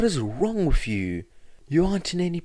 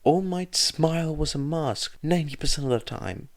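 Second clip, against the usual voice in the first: furious rant; 8 semitones higher than usual. A narrator's reading. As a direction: tear into him, outraged. Midoriya's furious rant at Suzuki.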